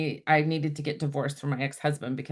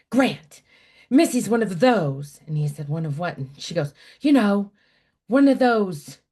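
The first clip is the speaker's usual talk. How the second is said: scandalized grandmother; 3 semitones higher, 7 dB louder than usual. Retold or imitated. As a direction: lean in with shocked disapproval.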